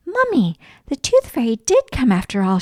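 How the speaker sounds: excited call. Acted. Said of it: "she shouted".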